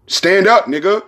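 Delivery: loud, high rallying cry; real burst of passion, loud and high; passionate shout. Real, not acted. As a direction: shout it out, fired up. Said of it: "I had a moment".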